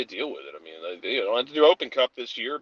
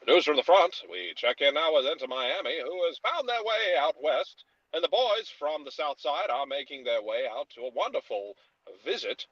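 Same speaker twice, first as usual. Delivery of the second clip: 1940s newsreel announcer voice; lightly voiced wartime newsreel reporter; old-timey radio voice; 3 semitones higher than usual. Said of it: "discuss the schedule in old-timey radio voice".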